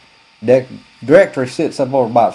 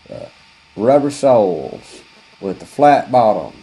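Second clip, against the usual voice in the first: slow announcer voice; mock ad read; slower than usual. Customer reading a placard like an ad. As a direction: read the sign like a commercial. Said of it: "a big old placard says".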